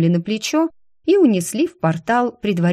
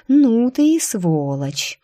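admiring drawl; 5 semitones higher, slower than usual. Acted. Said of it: "Даже с некоторым восхищением протянула я".

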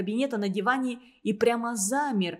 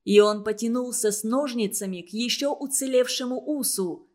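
ordinary delivery

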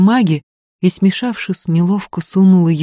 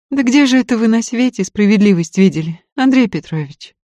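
bitter smile; 7 semitones higher, 4 dB louder than usual. A narrator's reading. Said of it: "с горькой улыбкой спросила Варя".

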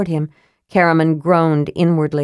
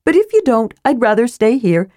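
Tass; 7 semitones higher, 4 dB louder, faster than usual. Acted. Tass voiced.

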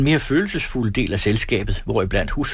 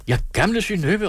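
calling out; 11 semitones higher than usual. A narrator's reading. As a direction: call her name out high. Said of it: "råbte alle".

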